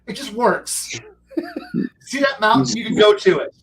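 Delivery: laughing Todd Howard impression. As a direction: pitch it like a keynote, cracking up. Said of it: "if I'm gonna quote Todd Howard".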